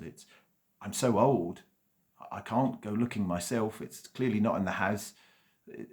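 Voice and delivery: a lightly voiced frail old man; old master.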